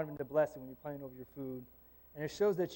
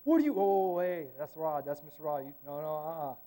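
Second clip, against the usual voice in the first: protective student. Retold or imitated. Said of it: "kids have my back".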